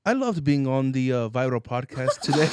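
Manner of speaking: a clumsy try at British, with a rolled r; a plain voice reaching for British; British accent attempt. Guest asked to try his best British accent. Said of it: "try your best British accent".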